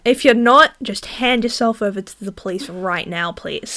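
firm mock-aggressive command, tailing down. Real, not acted. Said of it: "Don't be so aggressive".

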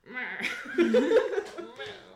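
loud gruff growl breaking into laughter; gruff voice try. Shown as a demonstration. Game master testing whether to go gruff, loud growl. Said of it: "Can I go gruff".

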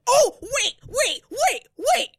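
high, urgent stop-everything wait; excited realization. Real, not acted. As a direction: cut in excitedly with a sudden memory. Sudden realization, stopping the talk.

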